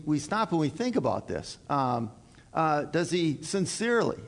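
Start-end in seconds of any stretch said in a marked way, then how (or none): 2.8-4.2 sincerely leaned on with a falling tune; weight on sincerely; stress on sincerely. Shown as a demonstration. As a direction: press the word sincerely. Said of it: "emphasis on the word sincerely there".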